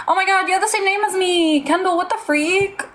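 high, fast excited surprise; sudden delighted shock; surprised. Real, not acted. Surprised by same name.

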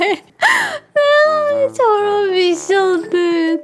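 mock wailing. Wailed take.

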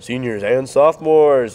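booming announcer read with a sick voice. Shown as a demonstration. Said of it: "I should use my sick voice to be like an announcer".

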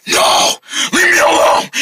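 high, furious outburst; angry voice. Acted. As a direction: yell to drive them away. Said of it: "getting the angry voice on".

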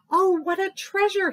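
high, loud chattery squirrel; chattering squirrel. Acted. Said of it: "he chattered".

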